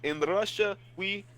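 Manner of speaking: put-on playful heavy Russian accent. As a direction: joke voice with a thick Russian accent. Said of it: "Stop talking like you're from Russia".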